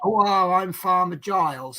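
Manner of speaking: lightly put-on Bristol farmer accent; a touch of rural Bristol farmer. Shown as a demonstration. Showing a listener how Bristol differs from Norfolk, light Bristol farmer accent. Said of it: "That's a bit more Bristol".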